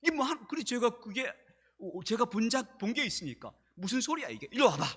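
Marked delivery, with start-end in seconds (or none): 3.8-4.9 mild mock scolding. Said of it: "막 소리를 치고 애들을 막 다그쳤어요".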